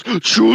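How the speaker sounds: high mock train hoot; European train whistle. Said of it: "it's the European train".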